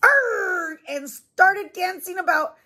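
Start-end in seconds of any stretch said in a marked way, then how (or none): 0.0-0.8 mock shout. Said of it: "Louise shouted".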